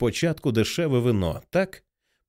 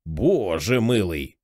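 lower, slow hoarse mutter; hoarse mumble; 6 semitones lower, much slower than usual. Acted. Cameraman mutters in shock, hoarse and low. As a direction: breathe it out low and rough in shock. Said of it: "хрипко пробурмотів".

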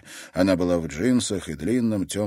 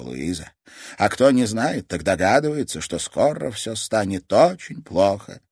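solemn grandmother; 4 semitones higher, 5 dB louder than usual. Acted. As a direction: make her think this is goodbye.

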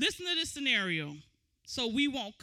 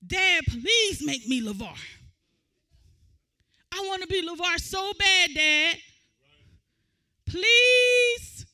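put-on whiny kid pleading, ending on a stretched high please; childish whining plea; 4 semitones higher, 8 dB louder than usual. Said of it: "Can you imagine LeVar saying".

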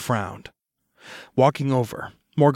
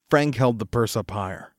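plain reading voice

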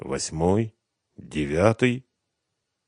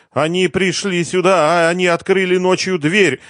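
sobbing; 11 semitones higher, 6 dB louder than usual. A narrator's reading. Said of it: "всхлипнула Евгения".

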